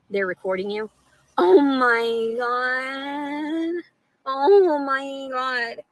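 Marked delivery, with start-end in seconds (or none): 1.4-5.8 very slow, stretched-out oh my God, a bit higher; real stunned gasp of disbelief. Real, not acted. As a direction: drag it out in shock. Shocked at being recorded.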